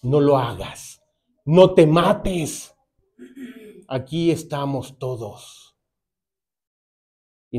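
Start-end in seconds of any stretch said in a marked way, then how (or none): 0.0-5.8 slow, drawn-out pleading call; Paul pleading slowly with the jailer; urgent plea to stop. Retold or imitated. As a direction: drag out each word to hold him back. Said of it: "Pablo le grita".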